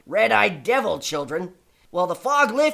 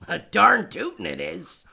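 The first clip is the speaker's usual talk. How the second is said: put-on old prospector; 2 semitones lower than usual. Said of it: "swearing like you're a prospector".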